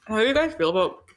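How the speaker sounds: talking through a mouthful of food; words round a bite of fries; mouth full. Real, not acted. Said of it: "I shouldn't eat with my mouth full".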